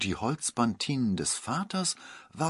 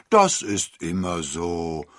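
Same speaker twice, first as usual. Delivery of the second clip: reassuring priest; 5 semitones lower, 4 dB louder, slower than usual. A narrator's reading. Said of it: "beruhigte der Pfarrer".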